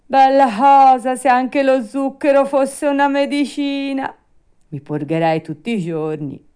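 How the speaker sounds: high, loud, gleeful puppet; Pinocchio, delighted. Acted. Puppet licking his lips after the sugar, delighted. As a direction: exclaim with greedy delight.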